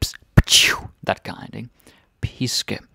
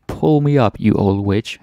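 yelling up; 6 dB louder than usual. Acted. Soldier yells up to the witch.

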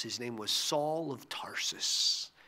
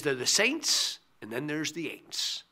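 lightly imitated Southern preacher accent. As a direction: quote him with a hint of a Southern accent. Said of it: "with his patented Southern accent".

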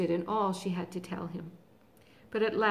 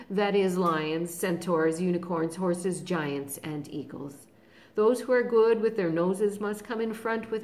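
loud, brisk marching orders; commanding lion; 4 dB louder than usual. Acted. Aslan sorting the army, loud orders. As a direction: order the crowd about.

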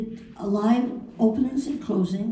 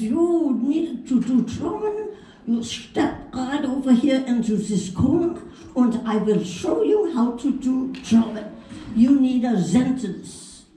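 put-on German accent; 3 semitones higher than usual. Hal showing her how to do German, German accent. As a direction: coach someone in a thick German accent. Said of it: "I'm supposed to do German".

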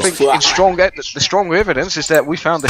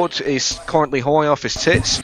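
put-on Australian accent. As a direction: play an Aussie official in an Australian accent.

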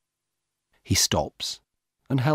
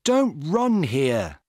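a slow, raised warning, lightly shouted; young woman scolds the jogger, slow lightly shouted warning; mock shout; 6 semitones higher, 3 dB louder, much slower than usual. A narrator's reading. Young woman warns the runner off, in a mild mock shout. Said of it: "Then a young woman shouts at him".

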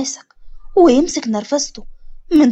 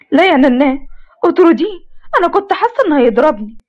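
put-on higher, fast, pleading girl; whiny granddaughter; 3 semitones higher than usual. Mariam begging her grandmother to fire the driver, higher and fast. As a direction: whine like a spoiled child.

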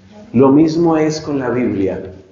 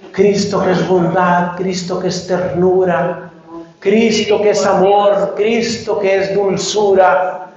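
sugary mock devotion; 3 semitones higher than usual. Parodies a sugary Christ image.

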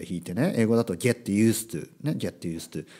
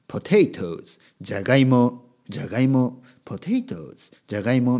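word-list recording style, each word set apart; imitated vocabulary audiobook; 4 dB louder than usual. Teacher mocking up a word-list audiobook, recited drill style. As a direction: mimic a bilingual vocabulary drill. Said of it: "オーディオブックみたいなのは".

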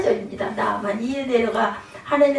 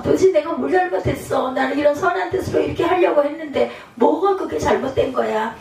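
retold angry protest; 3 semitones higher than usual. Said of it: "하면서 내가 혈기가 난 거".

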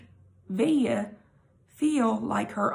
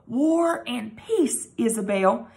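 called out; slower than usual. Acted. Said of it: "he called out".

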